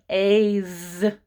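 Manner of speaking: 'a Z' as a long A running into a drawn-out buzz; sounded-out Z. Shown as a demonstration. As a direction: hold a long buzzing zzz on 'Z'. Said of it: "I hear Z sound".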